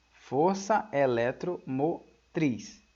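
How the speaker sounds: Força eletromotriz drawn out slowly; slow dictation. Shown as a demonstration. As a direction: spell out Força eletromotriz for the notes. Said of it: "Olha só". (ditado lento de Força eletromotriz)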